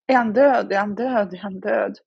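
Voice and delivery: mock shout that fades to a mutter; retold frantic shout, fading. Mother retelling running to the house, a frantic shout fading. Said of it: "så skriker jag".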